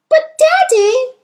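high, loud, drawn-out protest; slow rising little-girl appeal; pleading child. Acted. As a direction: whine it up to a father. Child pleading with angry father.

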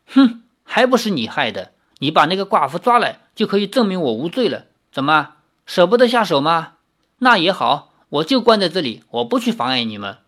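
quick, huffy sulking reproach; sulky jab. Acted. Lin blames Li for her jailing, quick and huffy. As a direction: needle him with jealous scorn. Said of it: "林月如白了他一眼".

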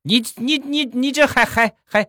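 high, baffled stutter; hammed-up stuttering old man; stammering. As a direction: stammer out a bewildered question. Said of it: "结巴".

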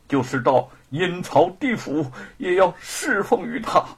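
resolute, steady declaration; earnest, emphatic pledge; firm. Acted. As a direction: vow it with unwavering conviction. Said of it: "声音坚定地说".

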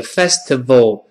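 festival with a clear V; correct festival. Shown as a demonstration. Teacher explains letter V, correct festival. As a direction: say festival as 'FES-tuh-vul', biting the V. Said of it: "出现是festival".

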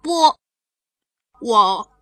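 put-on loud, insistent little kid; protesting child. Maomao refusing to be passenger, loud childish protest. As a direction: stamp your foot in the voice.

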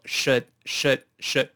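should元音短，嘴唇往中间略收，不撅嘴; 逐个慢读should，别读成“叔”; 嘴唇不前撅. Shown as a demonstration. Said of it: "嘴唇不往前撅". (should唇形略收、不往前撅)

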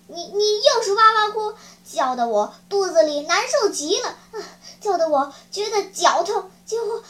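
grumbling that breaks into gasps before a sneeze; complain, losing the words as a sneeze builds; lightly acted pre-sneeze grumble; building up to a sneeze. Ogre complains, about to sneeze.

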